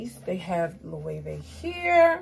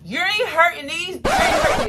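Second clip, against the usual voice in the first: laughing; 11 semitones higher, 11 dB louder than usual. Real, not acted. Laughing at her own joke.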